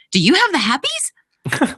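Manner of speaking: a light take on the Moroccan driver; imitating the driver. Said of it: "and he would say".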